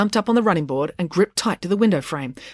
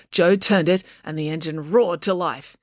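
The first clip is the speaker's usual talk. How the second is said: ordinary delivery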